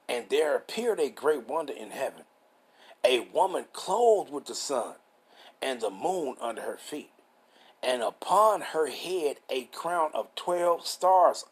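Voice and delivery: slow, measured Bible reading; deliberate, phrase-by-phrase preacher's reading; scripture reading. Real, not acted. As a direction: read the verse out with drawn-out key words. Reads scripture aloud.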